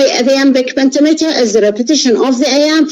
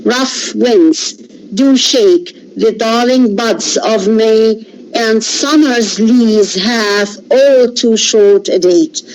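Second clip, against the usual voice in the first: poem recital. Acted. Reads the sonnet aloud.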